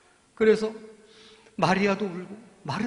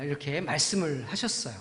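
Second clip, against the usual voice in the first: ordinary delivery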